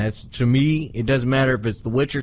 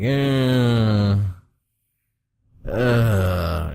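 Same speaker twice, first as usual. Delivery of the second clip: put-on South African accent hesitation. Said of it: "more like a South African accent".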